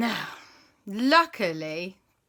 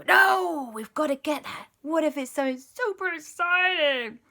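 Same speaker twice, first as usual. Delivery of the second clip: eager protest; 8 semitones higher, 6 dB louder than usual. Acted.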